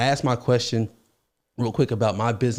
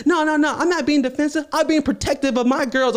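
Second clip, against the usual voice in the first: high woman voice; 12 semitones higher than usual. Retold or imitated. Her voice retold.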